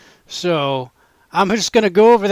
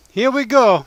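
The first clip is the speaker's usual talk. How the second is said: whisper; 6 semitones higher, 4 dB louder than usual. Real, not acted. About to taste the steak.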